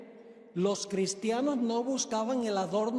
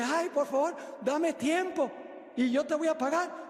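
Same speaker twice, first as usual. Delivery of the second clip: high, whiny begging for time; mock pitiful appeal; imitated pleading; 6 semitones higher than usual. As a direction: plead like the tearful debtor. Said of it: "hace lo mismo que había hecho él".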